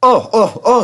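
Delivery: high, loud complaining trucks; groaning trucks. Acted.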